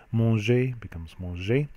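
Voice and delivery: teacher showing that "manger" and the past participle sound the same; pronunciation demo. Shown as a demonstration. Teacher to students, slow clear French demo. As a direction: say "manger" slowly and clearly, both forms sounding exactly alike. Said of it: "Note how they sound the same".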